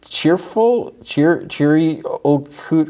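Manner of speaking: very high, folksy cartoon voice; imitated high cartoon exclaiming; Mister Ring-a-Ding. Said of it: "Ring-a-Ding's like".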